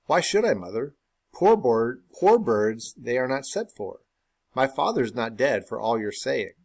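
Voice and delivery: lightly voiced cheeky boy; smart-aleck son. Son answers his mother cheekily, light boy voice. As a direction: answer back like a clever child.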